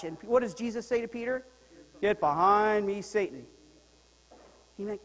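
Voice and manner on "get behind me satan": stern rebuke. Acted. Jesus rebuking Peter.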